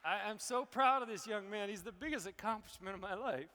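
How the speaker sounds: really moved, proud father holding back tears; emotional. Real, not acted. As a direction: say it with pride while welling up. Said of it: "I don't know why I'm so emotional".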